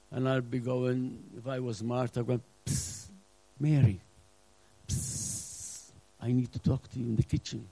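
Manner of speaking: hushed, sneaky psst, calling her aside; quietly sneak in and hiss for Mary; sneaky whisper. Retold or imitated. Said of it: "I would just slowly sneak into the".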